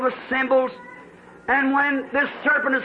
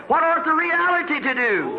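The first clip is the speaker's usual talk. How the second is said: raised, ringing preacher's cry; preaching shout; 3 semitones higher than usual. Real, not acted. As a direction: cry it out to the congregation. Preaching climax, rhetorical question.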